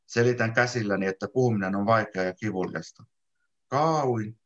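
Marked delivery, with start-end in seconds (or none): 3.7-4.4 "Kaauin" slurred, the d swallowed, lips barely moving; mumbled through swollen lips. Acted. Injured boy answering his friend, slurred and mumbling. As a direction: push "Kaauin" out past a split, swollen lip. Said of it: "saan sanottua samalla".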